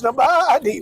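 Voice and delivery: bleating like a ram. Shown as a demonstration. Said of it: "that was always nobody".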